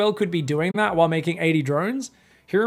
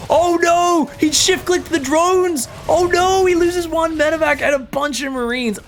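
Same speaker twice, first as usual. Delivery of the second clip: high, loud dismayed cry; oh no, much higher and louder, slower at first; excited shout; 11 semitones higher, 5 dB louder, slower than usual. Real, not acted. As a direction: cry out in horror at the blunder. Caster reacts to disaster.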